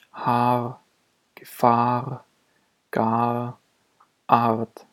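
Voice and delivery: long A with just a hint of consonant R in "Haar", "Gefahr", "gar". Shown as a demonstration. Teacher showing R after long A, lightly hinted R. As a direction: let a faint consonantal R follow the long A in "Art". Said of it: "Nur eine Andeutung von R".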